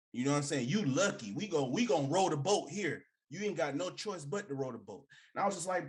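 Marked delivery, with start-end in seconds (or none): 0.7-5.1 a lightly voiced bossy coach giving orders; hint of a domineering coach laying down the law. Mimicking the Southern coach telling players to row. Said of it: "when the Pope came up there".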